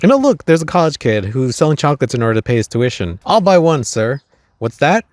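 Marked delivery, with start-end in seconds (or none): 3.2-5.1 eager offer. Retold or imitated. Offering to buy chocolate, then defending.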